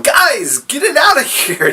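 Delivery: high, hammed-up orders to the troops; commander ordering army. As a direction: bark orders in a silly high voice. Alfred commanding his army.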